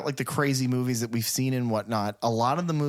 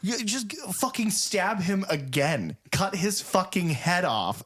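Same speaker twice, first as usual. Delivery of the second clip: retold screaming; 8 semitones higher than usual. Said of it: "she's screaming at the T V".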